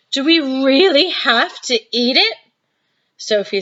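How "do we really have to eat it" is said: put-on dismayed girl. Sophie dreading food.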